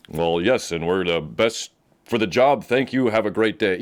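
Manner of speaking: mock professional restraint; toned-down emotions. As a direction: imitate someone politely holding back excitement. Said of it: "I'm not gonna lower my emotions".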